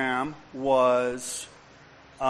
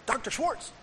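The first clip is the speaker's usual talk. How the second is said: calling out; 11 semitones higher, 4 dB quieter than usual. Retold or imitated. Cindy calls out to psychiatrist.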